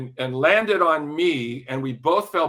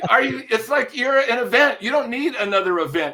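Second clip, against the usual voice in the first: louder, raised, pressing the point; insistent urging; 7 semitones higher, 5 dB louder than usual. Retold or imitated. Pushing a singer to take the special, insistent.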